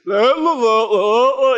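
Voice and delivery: loud goofy la-la-la dog noise; dog noise imitation. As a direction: babble la-la like a big happy dog. Imitates the lumbering dog's slobbery sound.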